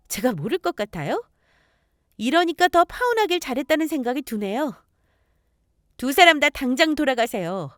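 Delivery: resolute, pointed rejection; acted firm young woman standing her ground; firm refusal. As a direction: lay it down firmly to both visitors. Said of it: "단호하게 제 생각을 전달했습니다".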